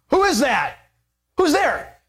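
jolted awake and asking who's there; startled waking. Retold or imitated. Boaz woken in the dark.

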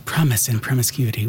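a hint of put-on English; lightly affected English accent; vague English accent. Host reads out the show title in a vague English accent. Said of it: "put on a vague English accent".

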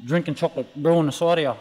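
chewing between the words; crunching toast. Real, not acted. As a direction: mouth full of toast. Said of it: "sorry, you might hear me, um, crunching".

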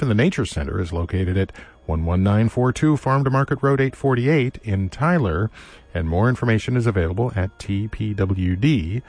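measured radio announcer delivery; announcer read. Acted. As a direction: read it like a station break. Station ID and sponsor read.

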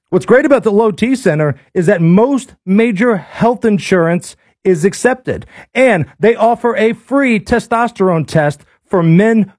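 upbeat live ad read; radio ad read. Acted. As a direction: sell it like a radio host. Reads a live ad.

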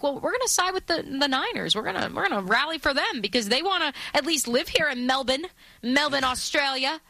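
light Aussie lilt on the quote; Australian accent. Retold or imitated. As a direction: voice the crowd with a touch of Aussie. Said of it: "did you just give us your Australian accent".

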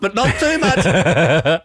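slow, teasing singsong with a laugh; mocking quote. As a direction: drag it out mockingly while laughing. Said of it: "but I ate just enough".

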